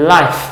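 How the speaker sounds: "life" said slowly, ending on a clear F; teacher repeats "life" for the class; slow word model. Shown as a demonstration. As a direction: draw out "life" and finish on F. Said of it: "เสียงตัว F".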